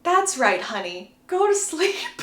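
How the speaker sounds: lightly acted soothing, lifting at the end. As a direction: coax someone gently off to sleep. Jacob soothing Bella to sleep.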